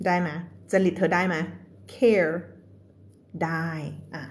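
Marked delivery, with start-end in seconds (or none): 1.9-2.3 "care" with a clear final R; English R in CARE. Shown as a demonstration. Teacher repeating it for students, "care" with R. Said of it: "ภาษาอังกฤษต้องมี R".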